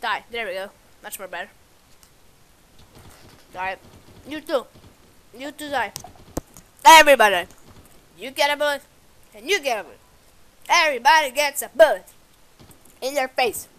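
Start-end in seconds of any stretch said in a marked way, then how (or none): 3.5-13.7 loud, grand giveaway announcement; gleeful showman. Pretend. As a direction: announce it like a prize show host. Gleeful shooting spree.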